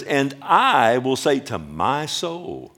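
slow, self-important lean on "I" and "my"; stress on I and MY. Acted. Preacher quoting the self-centred rich man, stress on I and MY. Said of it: "He has a problem with I and my".

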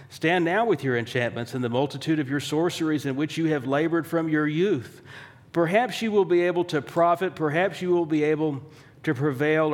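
mildly mocking scripture challenge; sarcastic. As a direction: read it as a lightly taunting dare. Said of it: "this is said really sarcastically".

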